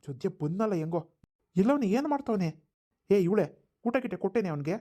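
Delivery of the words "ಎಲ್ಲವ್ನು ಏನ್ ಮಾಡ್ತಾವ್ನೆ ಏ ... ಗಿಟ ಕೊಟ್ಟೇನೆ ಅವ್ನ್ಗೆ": raised, demanding call to the wife; father yelling to his wife about their son; shouting at wife. Acted. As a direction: bark the questions across the house. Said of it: "ಯಾಕ್ರಿ ಹಂಗ್ ಕೂಗಾಡ್ತೀರಾ".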